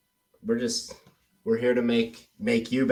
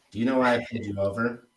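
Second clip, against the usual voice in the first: "Do you know why I pulled you over?" quick with a rising end; rising question; much faster than usual. Shown as a demonstration. Coach repeating the cop's line to compare. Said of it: "Same exact question".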